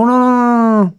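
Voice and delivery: high, loud mock panic, no no no; panicked refusal. TVA man begging the host not to call, mock panic. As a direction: squeal out a frightened refusal.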